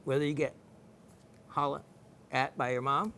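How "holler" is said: "holler" with a loose Southern ending; Southern pronunciation of "holler", final r softened. Shown as a demonstration. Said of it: "Same word".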